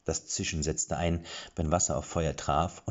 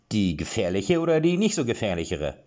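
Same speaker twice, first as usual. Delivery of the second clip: louder, puzzled dwarf question; confused dwarf; 4 semitones higher, 5 dB louder than usual. A narrator's reading. Dwarf checks which dangerous bar they mean, puzzled. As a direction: ask it like a riddle.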